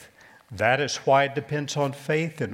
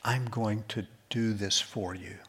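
sincere promise; 3 semitones lower, 5 dB quieter than usual. Acted. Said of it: "in all sincerity said".

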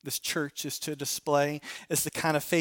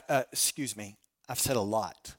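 lower, softer aside as God; mock voice of God; 8 semitones lower, 6 dB quieter than usual. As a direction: drop low and quiet, mildly put out. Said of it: "he's like".

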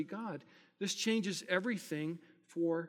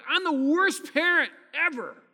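despairing self-talk; 7 semitones higher, 9 dB louder than usual. Retold or imitated. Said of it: "I go".

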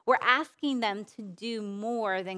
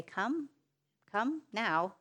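put-on mother calling child; 3 dB quieter, slower than usual. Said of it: "I almost hear it in the voice of a mother".

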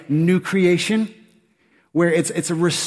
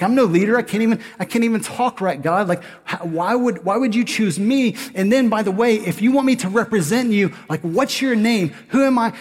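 mock-anxious Moses objecting to God; nervous Moses; 4 semitones higher than usual. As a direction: plead like an unsure Moses asking why me. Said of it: "He's like".

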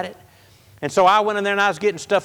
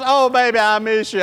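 mushy crybaby; 4 semitones higher than usual. Retold or imitated. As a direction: ham up a sappy young lover. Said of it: "I was like a big old baby".

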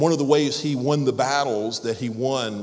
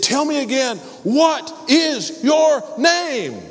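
very high, loud, slow enraged yell; furious shout; 7 dB louder, slower than usual. Acted. Angry king shouting at the young soldier. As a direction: blow your top and roar at him. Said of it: "about to blow his top".

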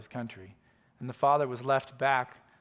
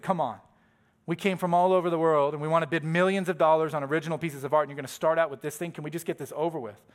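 mildly indignant bidder, impatient to move on; scoffing protest; 3 semitones higher, 5 dB louder than usual. Retold or imitated. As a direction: voice a scoffing complaint from the crowd. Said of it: "People begin to scoff".

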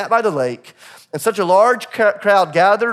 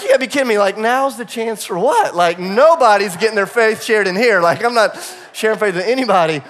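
higher, louder, mock disbelief at the suggestion; incredulous retort; 4 semitones higher, 4 dB louder than usual. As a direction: replay your teen self refusing, wide-eyed. Retorting to youth minister, incredulous.

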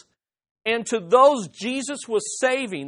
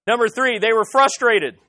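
louder restart; 2 semitones higher, 7 dB louder than usual. Real, not acted.

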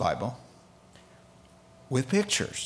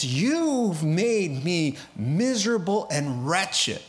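lamenting father; 2 semitones higher, slower than usual. Retold or imitated. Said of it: "He tears his robe and he says".

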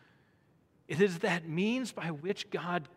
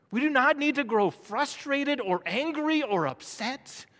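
higher, louder pulpit urging; emphatic preaching; 8 semitones higher, 8 dB louder than usual. Real, not acted. Preacher urging the congregation not to grow frustrated, emphatic. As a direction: preach it forcefully.

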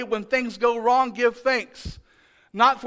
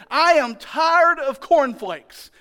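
mock whine, a bit louder and higher; whiny complaining; 4 semitones higher, 4 dB louder than usual. Israelites grumbling about the manna, mock whine. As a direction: complain like a spoiled crowd tired of its food. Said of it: "That's what they said".

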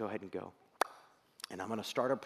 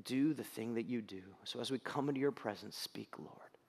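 earnest spoken prayer. Real, not acted. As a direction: pray sincerely for the congregation. Leads a prayer.

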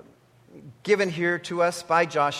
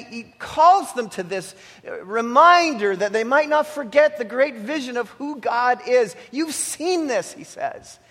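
fervent exhortation; 2 semitones higher than usual. Acted. Preacher exhorting his brothers and sisters, rising fervour. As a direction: rouse the congregation to act.

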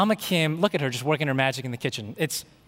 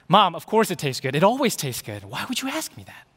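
exasperated son; 3 semitones higher, 4 dB louder than usual. Retold or imitated. Son answering his mom's same weekly question, exasperated. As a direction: play an incredulous kid answering Mom.

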